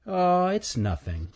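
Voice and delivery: high, stammering squirrel voice; a timid squirrel tripping on words; nervous stuttering squirrel. Acted. Stanley's voice.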